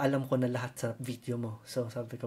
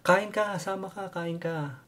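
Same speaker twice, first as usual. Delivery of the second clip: eager host; 5 semitones higher, slower than usual. Retold or imitated. Filipino host urging guest to eat.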